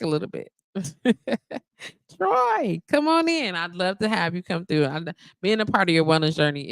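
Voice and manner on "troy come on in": high, singing greeting; excited welcome. Real, not acted. Streamer greeting Troy as he joins, excited. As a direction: call Troy in with delight.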